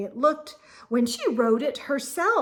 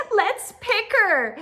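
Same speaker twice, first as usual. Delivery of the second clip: mocking laugh; 8 semitones higher, 5 dB louder than usual. A narrator's reading. Rita mocking.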